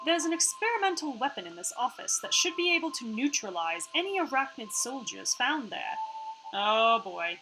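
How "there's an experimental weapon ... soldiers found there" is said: put-on half-Australian AI accent. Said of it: "sorry about her accent right now".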